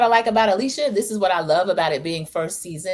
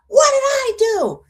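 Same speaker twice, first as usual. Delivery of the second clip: high, slow, louder wounded protest; innocent whine; 6 dB louder, slower than usual. Retold or imitated. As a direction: plead innocence, drawn out. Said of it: "Here comes Joellen".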